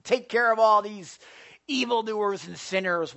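loud, impatient mock of the self-righteous; loud, high, indignant impatience; self-righteous demand. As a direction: demand it like a smug believer. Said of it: "That can be a little self-righteous".

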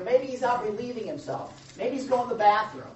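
high, teasing jab at the prophets; playful mock of a useless god; mocking taunt. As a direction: taunt them, lightly sarcastic. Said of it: "Elijah starts taunting them".

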